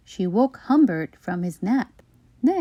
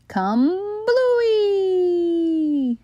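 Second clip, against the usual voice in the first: high exclamation; 9 semitones higher than usual. Acted. Sudden cry in story.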